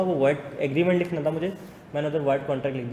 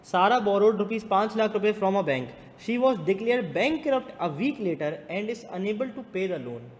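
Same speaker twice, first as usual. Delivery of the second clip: higher-pitched classroom read-out; reading question aloud; 4 semitones higher, much slower than usual. Real, not acted. Teacher reading a contract case to students, projected read-aloud.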